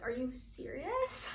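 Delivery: stunned, drawn-out question; quiet disbelief. Retold or imitated. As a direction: let it dawn on you slowly. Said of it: "that really shocked me".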